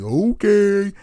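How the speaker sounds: mock okay. Friend conceding again.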